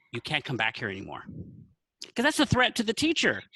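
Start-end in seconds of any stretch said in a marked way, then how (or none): 2.2-3.4 higher, firmer telling-off; raised insistent scolding; stern warning. Retold or imitated. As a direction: lay down the law.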